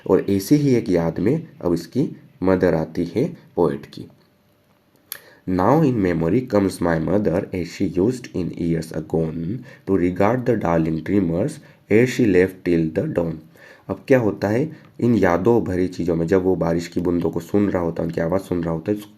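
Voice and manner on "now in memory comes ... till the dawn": slow, measured poetry reading; poem recitation. Acted. Teacher reading the poem to students, slow recitation. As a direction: read the stanza slowly, word by word. Reads poem stanza aloud.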